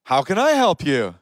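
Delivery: "I" lifted in "How can I help you"; shifted emphasis. Shown as a demonstration. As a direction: lean on "I" with a pitch peak. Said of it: "wherever you put the emphasis".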